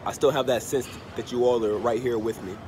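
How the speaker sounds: blocked nose, under the weather; stuffy nose. Real, not acted. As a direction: speak through a congested nose. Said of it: "I'm under the weather".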